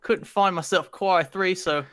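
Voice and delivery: put-on Aussie storytelling; amateur Australian accent. Shown as a demonstration. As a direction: imitate an Australian telling a yarn. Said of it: "give us the accent and a story combined".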